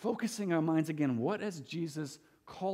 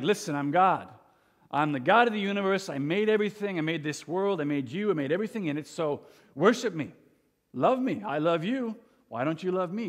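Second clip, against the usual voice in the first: hammed-up God pleading for worship, raised pitch; mock demanding God; 3 semitones higher, 4 dB louder than usual. Mock God in heaven demanding love from people, insistent. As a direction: rattle off grievances like a needy deity.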